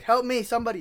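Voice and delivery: high pleading cry for help; imitating a woman begging for help; mock plea. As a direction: call out like someone in need.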